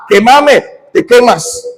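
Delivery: high, rapid-fire repeated commands; mock frantic exorcism. Imitating deliverance workers burning the demon, high frantic chanting. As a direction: keep hammering the phrase, pitch climbing as it goes.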